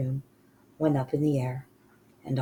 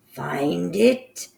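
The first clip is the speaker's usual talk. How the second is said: screamed; 3 semitones higher, 5 dB louder than usual. Acted. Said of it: "screamed the Grand High Witch".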